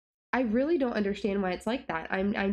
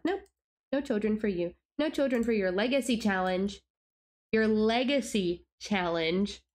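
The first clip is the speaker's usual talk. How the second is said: mock game voice. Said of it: "my game thinks it's broken and is like".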